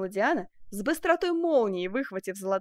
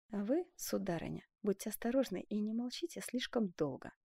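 quietly; 8 dB quieter than usual. A narrator's reading. Benvenuto quietly warning the duchess. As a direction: murmur a warning to her. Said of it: "тихо обратился Бенвенуто к герцогине".

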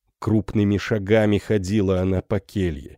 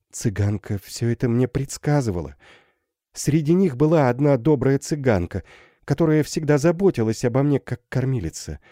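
higher, lightly voiced girl telling her story; young girl's voice; 5 semitones higher than usual. Girl recounts gypsy's prophecy. (слегка повышенный девичий голос)

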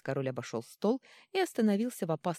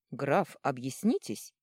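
commanding; 2 semitones lower, 3 dB louder, slower than usual. Acted. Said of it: "приказал".

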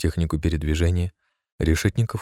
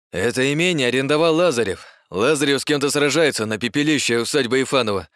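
agitated report; 8 semitones higher than usual. A narrator's reading. Agitated officer reports fight.

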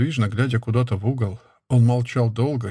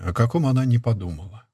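plain reading voice

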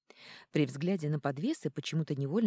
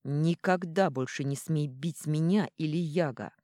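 ringing voice; 4 dB louder than usual. Acted. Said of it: "звенящим голосом".

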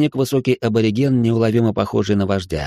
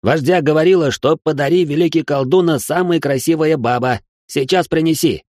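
выше и громче, ломаным языком; торжественно переводи вопль вождя; восклицание переводчика; 7 semitones higher, 3 dB louder than usual. A narrator's reading. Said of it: "перевёл восклицание Херля". (Херля переводит восклицание вождя, выше и громче)

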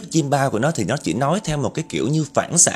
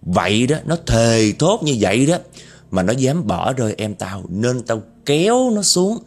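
vengeful ghost woman. Acted. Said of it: "cái vong nữ ... trả lời đó".

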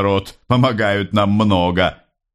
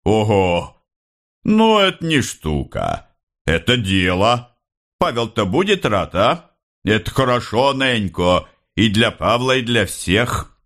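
joyful shout; 4 semitones higher than usual. Acted. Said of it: "радостно кричал".

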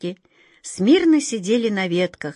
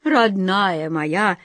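tender; much slower than usual. Acted. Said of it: "сказала тётушка Ох".

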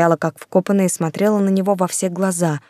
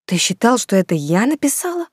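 taken aback; 4 semitones higher than usual. Acted. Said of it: "опешила Юлька".

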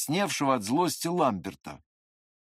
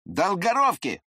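sharp repeat; 6 semitones higher, 4 dB louder than usual. A narrator's reading. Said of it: "повторил он тем же тоном и тем же голосом".

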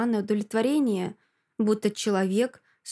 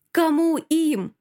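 high, loud, drawn-out bewildered question; alarmed confusion, pitched up; flustered babble; 7 semitones higher, 5 dB louder, much slower than usual. A narrator's reading. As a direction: stammer back in alarm. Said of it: "лепечет она".

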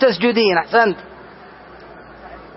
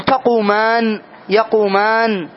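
تقومان and يقومان said slowly, the final nun clearly sounded; slow demo of the nun; slower than usual. Shown as a demonstration. Teacher showing students the kept nun, slowly. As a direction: draw out each verb so the nun is heard. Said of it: "يعني أن تنطق بالنون".

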